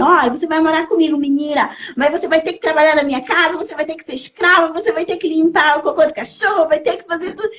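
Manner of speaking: quick, insistent list of orders; lightly voiced bossy mother. Adoptive mother warning the girl of chores, mock bossy. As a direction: rattle off the chores like a demanding mother.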